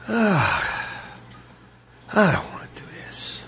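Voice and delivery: put-on whispered whiny teen refusal; sulky teenager dog. Dog trainer voicing his lazy dog, whispered teen whine. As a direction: play the dog as a moody teen who won't get up.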